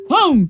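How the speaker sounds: playful "hum" chomping noise; imitated bite. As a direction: mimic biting into food. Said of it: "You see that hum? He took a bite".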